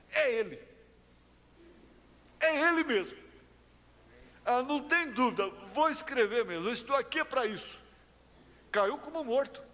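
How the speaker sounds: tom de pregador subindo, cada vez mais agudo; pregação empolgada. Acted. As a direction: pregue com fervor crescente e voz aguda. Pregação que sobe em fervor. (pregação fervorosa, voz subindo)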